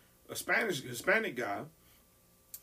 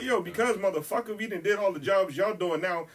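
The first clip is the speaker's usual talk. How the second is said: heated, higher-pitched retold rant; pissed off; 4 semitones higher, 4 dB louder than usual. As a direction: fuss back at the radio, indignant and louder. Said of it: "I was pissed".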